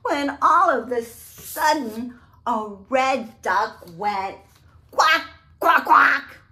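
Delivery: put-on reading aloud to children, building suspense; storybook build-up. A narrator's reading. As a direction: build up and burst with the quack.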